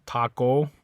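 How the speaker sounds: "taco" with a pure O at the end; Spanish pronunciation of taco. Shown as a demonstration. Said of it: "the O always makes an O sound".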